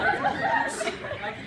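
slow laugh. Acted. Host laughing slowly.

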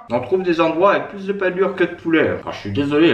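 talking through a mouthful of chicken; words round a bite of food; mouth full. Real, not acted. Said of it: "je parle la bouche pleine".

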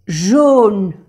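"Jaune" whispered, no voice, falling. Shown as a demonstration. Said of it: "model word".

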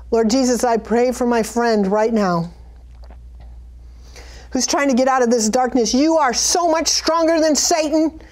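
fervent prayer, rising toward the end; earnest prayer. Acted. Preacher praying aloud for a struggling friend, fervent. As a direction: pray over them with conviction. Prays over the listener.

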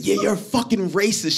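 offended Australian lady. Retold or imitated. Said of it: "she said".

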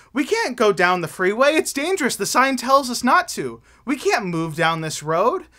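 hammed-up worried alarm; freaking out. Tyson panicking at the warning sign, mock fright. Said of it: "Tyson started freaking out".

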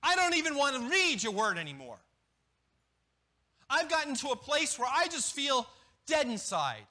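stubborn, resentful outburst at God; acting out a believer refusing to read the Bible; voiced angry believer.

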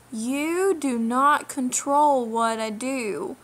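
slow, deliberate and firm; nice and slow. Real, not acted. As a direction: spell it out word by word to the commenter. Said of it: "let me repeat that nice and slow".

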